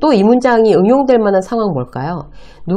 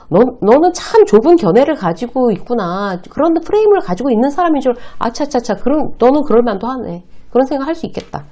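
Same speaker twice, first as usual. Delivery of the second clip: condescending tone; 5 semitones higher than usual. Shown as a demonstration. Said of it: "이거예요".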